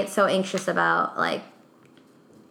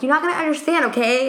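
imitating an exasperated insistence, pitched up; higher, insistent retold comeback; exasperated retort; 5 semitones higher, faster than usual. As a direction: brush him off, mock-impatient. Retold exchange, insisting partner won't get it.

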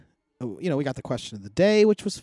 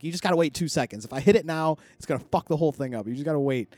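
short-tempered; 3 semitones higher, faster than usual. Retold or imitated. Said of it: "I was short".

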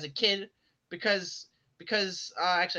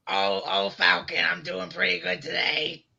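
gravelly put-on voice; 4 dB louder than usual. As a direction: fake odd voice. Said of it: "Are you making fun of my voice?".

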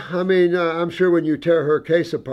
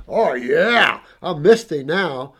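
mock perky client; 4 dB louder, slower than usual. Client's new bright self quoted.

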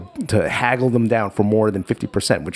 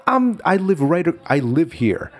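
mock offended; 4 semitones higher than usual. Dad feigning insult while haggling.

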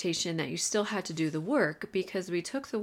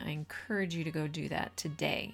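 upbeat announcer read; bright show-opening voice; podcast intro. Acted. Podcast intro read over music.

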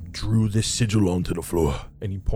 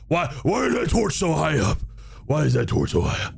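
higher, baffled question; puzzled demon; 4 semitones higher than usual. Acted. Demon bunny puzzled by the height of a torch. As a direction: wonder aloud at the torch.

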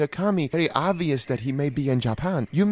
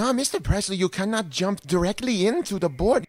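mock Japanese accent; 2 semitones higher than usual. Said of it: "I am almost talking like I am from Japan".

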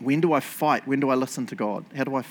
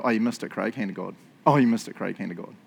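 gentle pointing-out; 6 semitones lower, faster than usual. Acted. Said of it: "sit down with Jesus".

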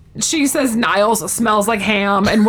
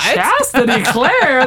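mock shock; 4 semitones higher, much slower than usual. Everyone reacting to the name.

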